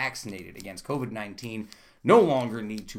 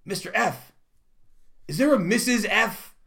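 put-on higher, innocent child asking; curious little kid; 9 semitones higher, 3 dB louder than usual. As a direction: pitch it up like a shy fourth grader. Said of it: "looks over at me and goes".

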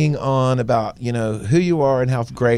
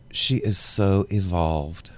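sarcastic; 5 semitones lower, 5 dB quieter, much slower than usual. Retold or imitated. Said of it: "He was being sarcastic".

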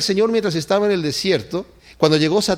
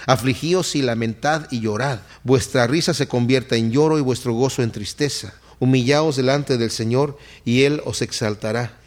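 lower-pitched, measured scripture reading; lectura bíblica; 5 semitones lower than usual. Acted. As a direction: read the verses aloud, pitched down. Reads the Bible verses aloud. (lectura de las Escrituras en tono más grave)

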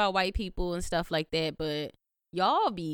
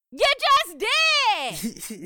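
exasperated yell; 13 semitones higher, 6 dB louder, faster than usual. Retold or imitated. She catches someone saying the word, exasperated mock yell. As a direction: yell it with a pause before each word.

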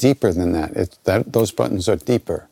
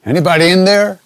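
high, loud call into the coop; farmer calling out; 9 semitones higher, 7 dB louder than usual. Retold or imitated. Farmer checking the chicken coop for intruders, loud high call. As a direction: sing out a suspicious farmer's 'anybody there'. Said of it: "the farmer comes out and, uh, looks in the chicken coop".

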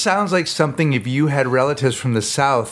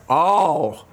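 redneck voice; 8 semitones higher, much slower than usual. Retold or imitated. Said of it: "some really fucked up cracker's like".

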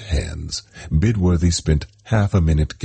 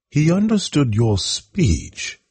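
high, slow, surprised question; 12 semitones higher, slower than usual. Acted. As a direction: ask it in real surprise.

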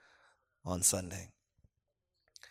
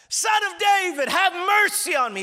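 high, far-carrying beggar's cry; desperate shout; 5 dB louder than usual. Acted. Blind beggar shouting to Jesus for mercy, high desperate shout. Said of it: "he begins to cry out".

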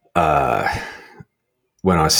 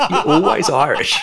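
higher, giggling through it; can't hold back the laugh; amused teasing repeat, laughing; 12 semitones higher, 4 dB louder than usual. Retold or imitated.

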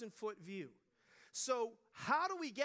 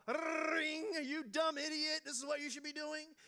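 mock alarm yell; 4 semitones higher, 4 dB louder than usual. Imagined alarm clock scolding.

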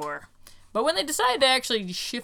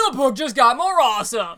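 louder, laughing delight; 2 semitones higher, 7 dB louder than usual. Real, not acted. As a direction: laugh through the words. Laughing after discovery.

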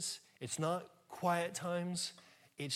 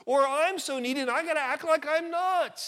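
high, slow put-on whine; high, drawn-out mock whine; mock whiny complainer; 8 semitones higher, 6 dB louder, slower than usual. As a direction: parody a needy churchgoer's whine. Mocking whiny needy voice.

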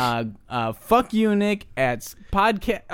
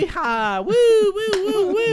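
rebel yell. Acted. Shows off after his introduction.

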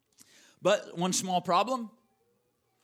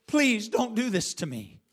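higher, desperate plea to his brothers; urgent begging; 5 semitones higher than usual. Acted. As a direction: beg as your voice climbs. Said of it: "pleading with them".

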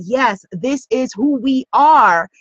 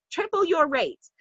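"Triple your rates" dropped to a soft, higher murmur; soft repeat; 5 semitones higher, 7 dB quieter than usual. Shown as a demonstration. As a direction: let the listener feel it, softly. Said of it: "Feel it".

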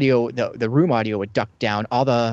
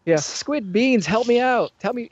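higher, louder mock panic of a gangster in a shootout; panicked gangster Muggsy; 9 semitones higher, 5 dB louder than usual. Guide playing Muggsy with no gangster car, higher panicked mock gangster. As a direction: play the lost gangster looking for his shooters. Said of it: "coming out as Muggsy".

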